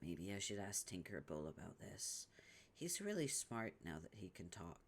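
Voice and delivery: hushed secret aside; breathy private musing; whisper. Acted. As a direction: whisper it to yourself.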